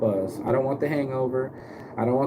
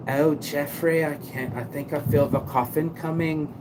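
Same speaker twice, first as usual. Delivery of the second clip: put-on English accent; 4 semitones higher than usual. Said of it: "he did it in an English accent".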